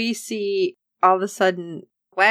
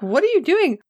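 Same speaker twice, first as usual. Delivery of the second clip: much higher, urgent mock alarm; alarmed protest; 8 semitones higher than usual. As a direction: plead urgently, pitched up high. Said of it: "And Okoye is like".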